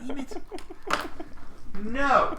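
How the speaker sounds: high, loud commanding no; real shout at dog. Real, not acted. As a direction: yell no at the dog. Dog grabs his shoe.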